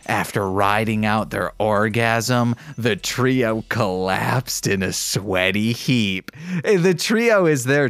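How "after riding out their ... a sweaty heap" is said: steady read-aloud narration; calm fanfic reading; story narration. Acted. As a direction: read the story evenly, like an audiobook.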